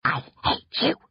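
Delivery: unvoiced, soft venomous whisper; hateful hiss. A narrator's reading. Sister to prankster brother, hateful whisper. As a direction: whisper it with pure hatred.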